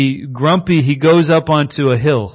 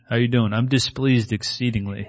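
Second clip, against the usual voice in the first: mock-grumpy reply; 5 dB quieter than usual. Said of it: "I'm gonna use that more often now".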